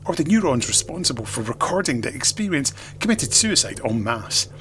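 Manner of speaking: hammed-up fury, spitting out the insults; angry reader. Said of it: "my usual sub-Rick mail for an angry reader".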